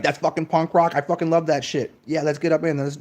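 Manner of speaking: loud, pumped-up rocker voice; mock punk enthusiasm. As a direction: hype it like a punk fan.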